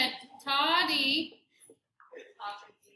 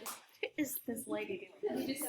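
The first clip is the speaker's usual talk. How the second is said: quieter, slow mock-baffled viewer; 3 semitones lower, 11 dB quieter, slower than usual. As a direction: play a puzzled viewer lightly. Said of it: "Everyone's gonna be like".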